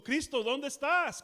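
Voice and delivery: high, loud anguished plea; crying out. Acted. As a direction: cry out for help. Acted cry to Christ.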